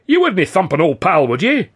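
butter him up to avoid a thumping; nervous pleading pal. A narrator's reading. Cornered old pal begging not to be hit, high wheedling.

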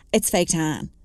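a touch of smugness, understated; mildly smug know-it-all. Acted. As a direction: say it lightly self-satisfied. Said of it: "she said smugly".

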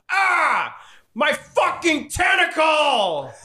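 high, drawn-out screech of pain; hammed-up monster shriek; wounded monster. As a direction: wail like a creature just sliced open. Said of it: "you slice into him and he goes".

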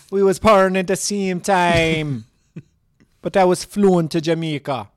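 loud put-on Jamaican accent; hammed-up Jamaican lilt; mock Jamaican accent. Long-lost cousin flown to Jamaica, loud mock accent.

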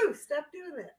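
imitated chick. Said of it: "that's what the chick says".

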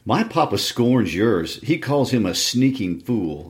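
put-on slow, drawn-out taunting boy; lightly voiced sneer, slow. Linton taunts Cathy.

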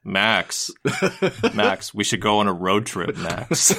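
a hint of a bored flat line reading; flat normal-voice Goofy. Bad version where Bill Farmer reads flatly, deadpan. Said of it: "Bill Farmer is just like".

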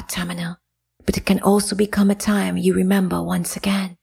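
hushed, unvoiced divine whisper; goddess whisper. Goddess Jael speaking.

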